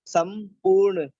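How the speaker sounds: संपूर्ण said slowly with a retroflex ण; teacher pronouncing संपूर्ण; slow model word. Shown as a demonstration. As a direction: sound out संपूर्ण carefully with the tongue curled back for ण. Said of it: "इसमें लिखा है संपूर्ण".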